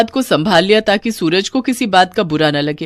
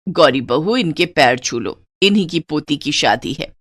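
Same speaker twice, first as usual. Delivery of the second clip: put-on lower, firm old-fashioned mother-in-law; stern mother-in-law; 4 semitones lower, 3 dB quieter than usual. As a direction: lay down the house rules to the new bride. Mother-in-law directs bride.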